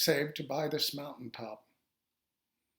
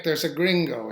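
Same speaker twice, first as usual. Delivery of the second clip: calling out; 4 semitones higher, 10 dB louder than usual. Retold or imitated. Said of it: "Jose called out".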